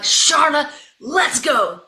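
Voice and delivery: loud, high summons; calling out. Retold or imitated. Coach summoning a player into the game, calling out. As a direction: call down the bench with urgency.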